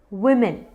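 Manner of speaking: वुमेन as "wim-in"; short i in the first syllable of वुमेन; correct pronunciation. Shown as a demonstration. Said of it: "इसका pronunciation है". (वुमेन को "विमिन" बोलें)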